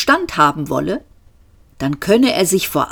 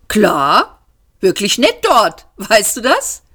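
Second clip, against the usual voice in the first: breezy smug Seyfort; 4 semitones higher than usual. Acted. Seyfort's smug casual replies.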